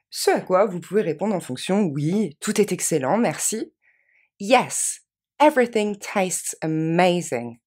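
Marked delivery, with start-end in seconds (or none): 4.4-7.6 slow model phrase. Shown as a demonstration. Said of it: "Encore une fois".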